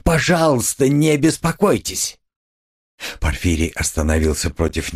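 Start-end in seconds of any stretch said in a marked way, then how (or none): 0.0-2.2 higher, strained polite exclaim; half-hysterical courtesy; a touch of mad laughter held back; forced exclamation. Acted. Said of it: "вскричал Раскольников и вдруг захохотал".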